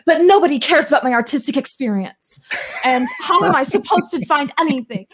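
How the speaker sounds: high, laughing mock whine; mock whiny complaint. Replying to her friend with a high mock whine. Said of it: "And I was like".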